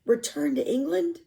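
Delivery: rising question, caught off guard; stunned echo. Acted. Boy hearing his captain will leave, stunned question. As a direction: echo it in disbelief.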